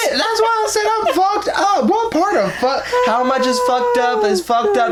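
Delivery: high, loud laughing yell; laughing shout. Real, not acted. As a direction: shout it while cracking up. Laughing rant about allergies.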